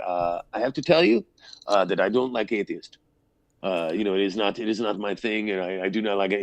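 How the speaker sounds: a light, bad German accent put on for a forthright publicist; lightly imitating a German man's blunt English; horrible German accent. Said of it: "that's my horrible German accent".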